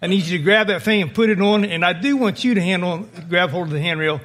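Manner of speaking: assign each man his job over the wind; commanding captain. Retold or imitated. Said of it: "begin to bark orders to take a command presence".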